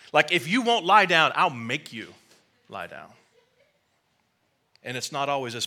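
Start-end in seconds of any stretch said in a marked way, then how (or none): 0.1-3.1 mock stern louder command, dropping at the end; lightly voiced God laying down the law; God insisting. God forcing a worn-out believer to rest, mock stern.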